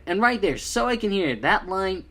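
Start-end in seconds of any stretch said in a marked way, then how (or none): 0.6-1.4 higher voice with a touch of Southern; Toby. Retold or imitated. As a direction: echo the line with a slight Southern lilt. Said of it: "I heard a little bit of Southern".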